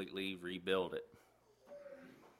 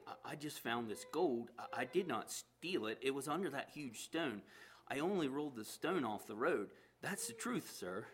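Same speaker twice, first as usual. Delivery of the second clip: nervously; 6 semitones higher than usual. Acted. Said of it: "the man answered nervously".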